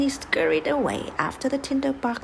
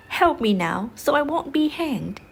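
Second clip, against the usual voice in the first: louder, rising urgent call; urgent plea; 5 semitones higher, 4 dB louder than usual. Acted. Soldier on the gallows ladder urgently calling to his dogs. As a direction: shout to the dogs to save him.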